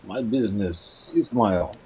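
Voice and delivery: slow, curt, guarded; cold in-character reply. Acted. Tabaxi rebuffing the nosy contact, slow and curt. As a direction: brush off the question coolly.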